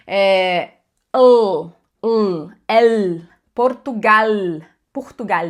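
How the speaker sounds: "Portugal" with a European Portuguese clear final L, slowly; Portuguese accent. Shown as a demonstration. Teacher imitates how Portuguese people say L: lightly done Portuguese accent. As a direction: say "Portugal" like a Lisbon speaker, the L held. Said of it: "Pensa nos portugueses falando L".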